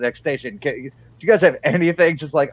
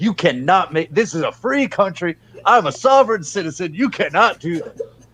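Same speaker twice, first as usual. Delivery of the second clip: high-pitched, angry tone; 5 semitones higher than usual. Planning a comeback to someone who is pissed, matching her angry energy. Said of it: "try to match her energy".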